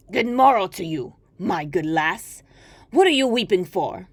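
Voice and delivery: hobbling little fellow greeting kindly; a hint of an odd little man; droll little man. Dwarf greets weeping maiden.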